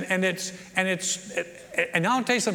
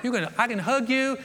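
higher, quick no no no; hurried high reassurance; eager reassurance; 5 semitones higher than usual. Retold or imitated. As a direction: rush to reassure them. Reassuring retold reply, pitch up.

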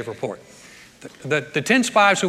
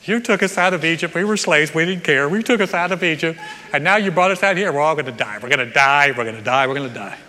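mock complaint. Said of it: "Then it's like".

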